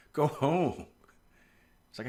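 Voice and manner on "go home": higher, firmer go home with the stress on go; mock exasperated order; insistent repeat. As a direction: push it again, more urgent, with the pitch up.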